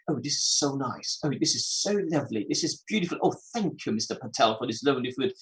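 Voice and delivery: light, gushing thank-you in a slightly different voice; imitating delighted neighbors. Neighbor thanking Mister Patel for spicy food, lightly mimicked gushing. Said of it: "I'm just trying to imitate now how they speak".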